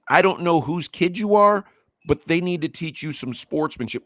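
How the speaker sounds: high-pitched, incredulous echo of an insult; retold challenge, voice pitched well up; indignant quoting back. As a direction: throw their own words back at them. Quotes coach's words back at him.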